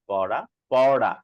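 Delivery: slow পড়া, first as পরা, then with retroflex ড়; drawn-out pair, tongue forward then back; R contrast. Shown as a demonstration. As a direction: contrast the two পড়া, tap then flap. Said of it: "এটা হচ্ছে এটার পার্থক্য".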